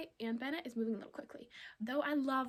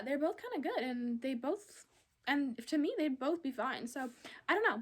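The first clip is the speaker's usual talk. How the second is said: talking while chewing gum; chatting around gum. Real, not acted. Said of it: "It's really hard talking when you have gum in your mouth".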